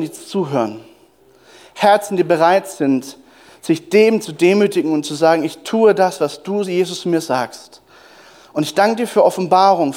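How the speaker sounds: earnest spoken prayer, slowing on key words; fervent prayer. Acted. Pastor praying aloud for the congregation before the sermon. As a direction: pray it out to Jesus.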